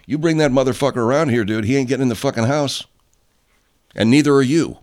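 angry dad, retold. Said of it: "And his old man said".

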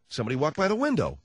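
normal talking voice

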